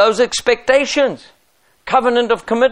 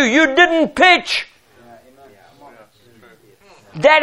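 stern rebuke; 5 semitones higher than usual. Acted. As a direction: hold them to their word, hard. Pastor rebukes volunteer who skipped.

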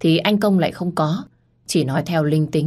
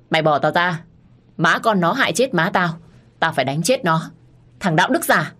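furious yelling. Acted. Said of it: "Anh Công hùng hổ".

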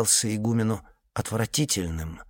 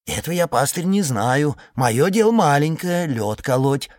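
humble; 4 semitones higher, 3 dB louder than usual. Acted. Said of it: "с подчёркнутым смирением".

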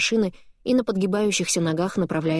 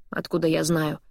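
dismissive. Acted. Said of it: "отмахивается Алекс".

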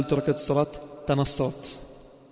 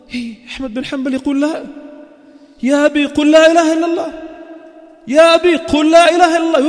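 high, loud desperate plea to a dying father; son pleading; 8 semitones higher, 5 dB louder than usual. Acted. Son begging his dying father, loud and desperate. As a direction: beg him to say the testimony, crying out.

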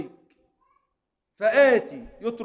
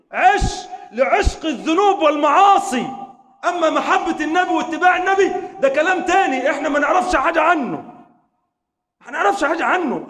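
higher, louder sermon with shouted peaks; fiery preaching; 5 semitones higher, 5 dB louder than usual. Acted. Preacher scolding the listeners' hard hearts, impassioned. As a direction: rebuke the hearts, then lift them up.

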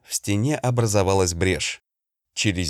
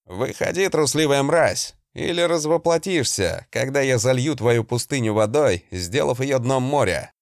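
yelling; 4 semitones higher than usual. Acted. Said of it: "Дикарь же завопил".

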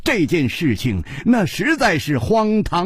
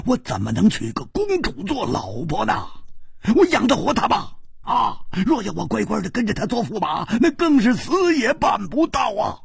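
anguished protest; 5 semitones higher than usual. Acted. Hu protesting marrying the princess.

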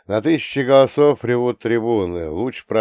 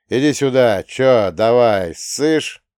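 taunting; 2 semitones higher, 6 dB louder, slower than usual. Acted. Fighter taunts opponent.

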